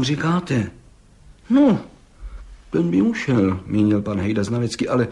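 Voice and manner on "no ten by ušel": appraising exclamation. A narrator's reading. Gendarme appraising the prisoner's arm. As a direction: bark out the first word like an expert judge.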